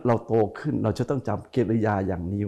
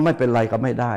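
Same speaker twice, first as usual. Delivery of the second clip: grudging tone. Shown as a demonstration. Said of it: "เสียงมันต่างกัน".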